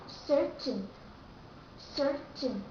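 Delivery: "certain" with the T clearly released; full T pronunciation. Shown as a demonstration. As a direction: say "certain" with a crisp sounded T. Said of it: "Americans don't say certain".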